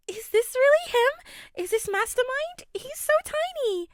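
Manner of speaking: high, sing-song unhinged schoolgirl. Acted. Toga gushes over Izuku.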